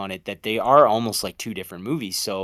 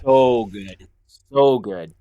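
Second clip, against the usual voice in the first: excited; 7 dB louder, much slower than usual. Real, not acted. Loud enthusiastic praise.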